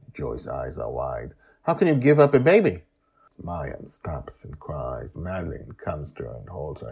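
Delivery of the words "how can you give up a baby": high, loud, fast disbelief; shocked outburst. Acted. Joy hearing the girl's story, shocked high outcry. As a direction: blurt it out in disbelief.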